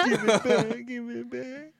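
high, squeaky spoiled brat; whiny brat. Pretend.

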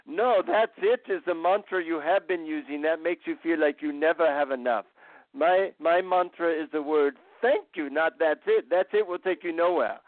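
lightly voiced Indian guru correcting; Indian accent. Guru corrects his disappointed visitor, light Indian accent. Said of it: "he said in his Indian accent".

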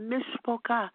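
put-on tearful plea; imitated fake crying. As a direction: mimic someone pretending to weep. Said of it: "she was pretending like she was crying".

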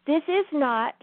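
slow, drawn-out inspirational message; slow uplifting address. Acted. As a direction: tell them slowly that all are welcome.

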